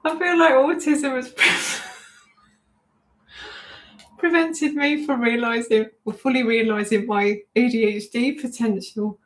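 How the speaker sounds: trying to read but cracking up; reading a funny comment aloud and breaking into laughter; laughing while reading. Real, not acted. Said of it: "it's really made me laugh".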